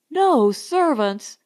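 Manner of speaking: slow, dismayed outcry; aghast at the news; mild shocked exclamation; cried out. Acted. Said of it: "everybody cried at once".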